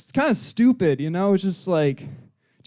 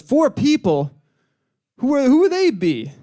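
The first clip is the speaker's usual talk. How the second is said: higher, startled questioning; alarmed miner; 5 semitones higher, 3 dB louder than usual. Acted. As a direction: play a miner thrown by the news. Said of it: "And the guy goes".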